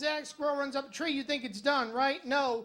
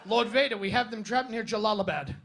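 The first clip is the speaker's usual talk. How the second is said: louder, a hint of a sci-fi officer reporting; lightly voiced Imperial officer; 6 dB louder than usual. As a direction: report to Vader with mild urgency. Star Wars rebel base parody.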